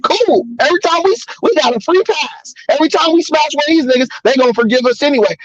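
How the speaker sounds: mock gloating. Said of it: "That nigga like".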